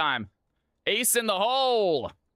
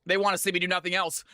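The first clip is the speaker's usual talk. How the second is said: rushed, lower mumble; fast and low; 2 semitones lower, faster than usual. Shown as a demonstration. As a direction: toss it off quickly under the breath. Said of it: "repeats line differently".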